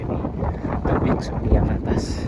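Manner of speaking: loud breathy call in gale; shouting over wind. Real, not acted. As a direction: project over roaring wind. Wind at the cliff top. (berteriak di tengah angin)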